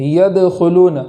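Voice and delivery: يَدْخُلُونَ with bounced د; qalqala on dal. Shown as a demonstration. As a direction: echo the د of يَدْخُلُونَ. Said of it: "قلقلہ کے ساتھ پڑھیں گے".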